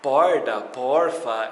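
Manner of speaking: porda with a d and porfa with an f in place of the t; porda, porfa, swapped letters. Shown as a demonstration. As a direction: swap the letters in porta. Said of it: "Se o meu porta virasse".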